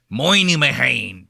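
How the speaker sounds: "Moynihan" with a broad, drawn-out MOY start; mock the Boston way of saying "Moynihan"; Boston pronunciation. Host rejecting the Boston version, "Moynihan" said mockingly broad. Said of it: "Don't give me that Boston".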